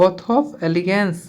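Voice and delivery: slow, word by word for memorising; teacher drilling a phrase slowly. Shown as a demonstration. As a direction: spell it out slowly so it sticks. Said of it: "रट्टा लगा दो".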